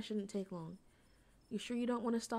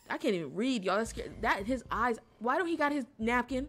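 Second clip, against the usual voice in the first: scared; 3 semitones higher, 7 dB louder than usual. Real, not acted. Creepy figure on screen.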